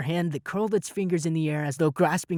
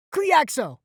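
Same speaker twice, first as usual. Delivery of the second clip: high, loud incantation; shouted spell; 13 semitones higher, 6 dB louder than usual. A narrator's reading. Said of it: "I shouted".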